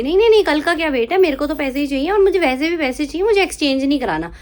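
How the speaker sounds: angry customer. Retold or imitated. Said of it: "quoting angry shop customer".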